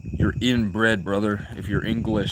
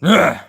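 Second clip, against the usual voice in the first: short, loud, higher-pitched ugh; exasperated ugh; 7 semitones higher, 9 dB louder than usual. Real, not acted. Streamer held up from his cigarette, exasperated ugh. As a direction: let out a sharp groan of annoyance. Exasperated noise while trying to smoke.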